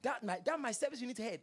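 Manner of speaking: whisper-gossip about the pastor; a hushed imitation of a gossiping member; mock gossip.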